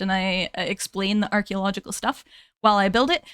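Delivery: chatty Scottish accent, easing into it. Shown as a demonstration. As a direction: talk casually in a Scottish lilt. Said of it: "I can bring it out a bit".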